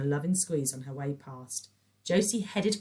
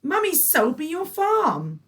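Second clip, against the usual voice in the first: gleeful; 13 semitones higher, 9 dB louder, slower than usual. A narrator's reading. Patricia triumphant.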